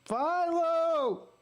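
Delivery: high, drawn-out heckler's yell; drunk fan's yell. Retold or imitated. Drunk fan behind him heckling the team, yelling high and long. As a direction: holler it like an obnoxious fan. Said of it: "this guy's yelling".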